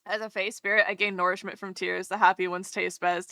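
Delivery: low, soft, eerie spirit voice; fae spirit. Pretend. Streamer playing a fae spirit that feeds on tears, soft and eerie. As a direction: speak softly as a tear-eating fairy.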